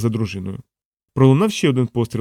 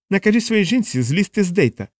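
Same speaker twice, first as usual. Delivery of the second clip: hissed through teeth; 8 semitones higher than usual. A narrator's reading. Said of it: "процідив Гутєрес".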